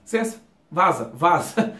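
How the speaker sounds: quick dismissive get lost; casual brush-off. Shown as a demonstration. Teacher showing the real everyday way. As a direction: shoo someone off casually. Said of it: "A gente fala".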